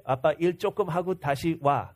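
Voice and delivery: quick, lightly voiced little girl speaking Korean; 아이처럼 빠르게 말하는 목소리; daughter in Korean. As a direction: rattle it off like a small child giving permission. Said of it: "this is what she said in Korean".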